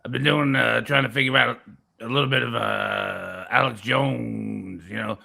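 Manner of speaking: a hint of rumbling in the back of the voice; lightly put-on impression with long-drawn name; Alex Jones. Product seller grumbling to Vic, lightly voiced rumbling impression. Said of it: "it's a hard voice to do".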